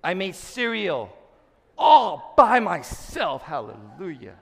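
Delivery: high, slow, hammed-up boast over a tiny feat; mock proud Facebook post. Pastor mocking a churchgoer's proud post, hammed-up and slow. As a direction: gush it like a childish brag. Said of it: "put that on Facebook and say".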